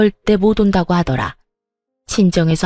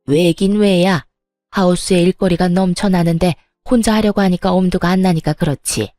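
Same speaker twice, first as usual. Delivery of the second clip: dismissive retort. Acted. Mother-in-law dismisses son.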